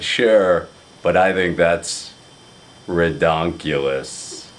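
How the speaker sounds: lightly imitated deadpan friend; Craig's low voice. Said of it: "he has a very low voice".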